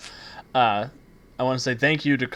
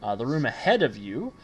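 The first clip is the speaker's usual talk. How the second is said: measured, dramatic scene-setting; game master narration; 3 dB louder than usual. Acted. Game master describing the vault room to players, measured narration. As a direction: unfold the scene as a storyteller.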